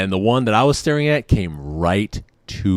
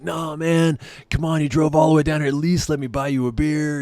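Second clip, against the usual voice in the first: high-pitched, pleading drunk impression; drunk buddy; 8 semitones higher than usual. Drunk friend begging his ride to stay, high imitated pleading. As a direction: coax like a whiny drunk pal. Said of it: "'cause he's drunk".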